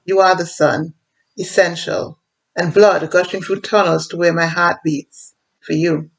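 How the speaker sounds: measured poem reading, line by line; poem recital. Acted. Poet addresses her island Antigua, reciting a love poem. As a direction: recite it like a love poem, pausing between images.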